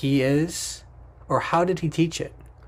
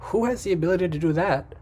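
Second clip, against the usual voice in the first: quick, higher voice for the doubting companions; incredulous companions; 4 semitones higher, faster than usual. Acted. Companions answering Muhammad, fast incredulous question. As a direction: toss it off fast as an amazed question.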